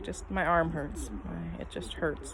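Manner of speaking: quietly hurting. Retold or imitated. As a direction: say it through quiet pain. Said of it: "I was like".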